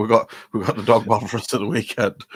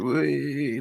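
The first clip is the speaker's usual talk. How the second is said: mock crowd whee; 7 semitones higher, 3 dB quieter than usual. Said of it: "where the crowd just went".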